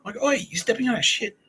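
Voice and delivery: high-pitched mock outraged "oi"; indignant calling out. Picnickers telling off careless soccer players, mock indignant. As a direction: re-enact an angry protest, pitched well up.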